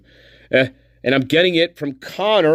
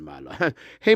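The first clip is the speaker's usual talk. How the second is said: put-on old spirit voice; 5 semitones lower than usual. Spirit realm elder teasing the streamer.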